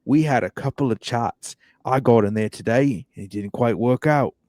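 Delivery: put-on a light Australian accent on a ballplayer's quote. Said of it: "I'll do my best Australian accent".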